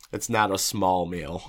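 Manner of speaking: talking through a mouthful of food; words round a bite of food; mouth full. Real, not acted. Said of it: "Talking with your mouth full".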